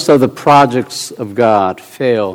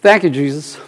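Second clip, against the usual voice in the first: a dry, sarcastic "Thank you, Jesus"; 3 semitones higher than usual. Shown as a demonstration. Preacher showing how thanks to God can sound sarcastic. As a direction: thank him without meaning it. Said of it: "You can say it sarcastically".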